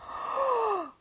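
long breathy sigh, acted; sigh of relief. Studio head's reveal lands, acted sigh of relief. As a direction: let out a big mock sigh of relief. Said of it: "huge sigh of relief".

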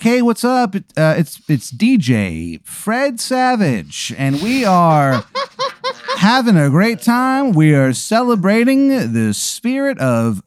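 hyped radio DJ with pitch leaps, slowed. Acted. DJ Fred Savage hypes rock weekend, lightly voiced. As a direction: sell it like a cheesy rock DJ.

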